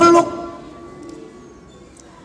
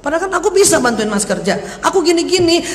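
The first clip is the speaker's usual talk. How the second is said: mildly indignant, climbing higher towards the end; indignant complaint; 4 semitones higher than usual. Acted. Widow protesting her husband never let her work, mildly indignant.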